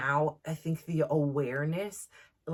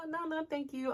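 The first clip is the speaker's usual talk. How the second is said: emphatic refusal; 12 semitones higher, 4 dB quieter than usual. Retold or imitated. Mother refusing early school.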